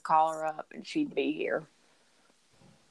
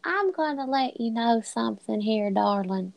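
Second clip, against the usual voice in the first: put-on thick Southern accent; 4 semitones higher than usual. Southern woman scolding Sarah in a thick Southern accent. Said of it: "make the accent really come out".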